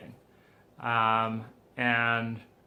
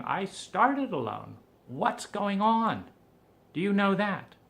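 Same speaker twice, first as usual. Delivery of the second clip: frustrated outburst; 3 dB louder than usual. Retold or imitated. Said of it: "I was like".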